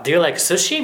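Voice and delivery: "Do you like sushi" with the pitch lifting at the end; yes-no question tune, "sushi" going up; rising question ending. Shown as a demonstration. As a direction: lift the voice on "sushi". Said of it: "後ろ語尾上がるんですけど".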